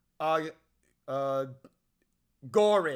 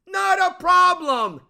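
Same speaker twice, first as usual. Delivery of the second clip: higher, louder, slow breezy producer line; borrowed catchphrase; 9 semitones higher, 10 dB louder than usual. Retold or imitated. Reviewer quoting a parody show's producer, mock breezy. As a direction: sell it like a smug studio exec. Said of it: "Again, I hate stealing this".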